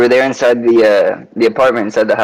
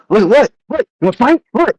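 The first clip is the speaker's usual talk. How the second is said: aggressive stranger; 12 semitones higher than usual. Retold or imitated. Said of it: "And they're like".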